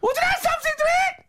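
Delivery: very high, slow scream for help. Acted. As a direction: scream it like a horror victim. Screaming victim act.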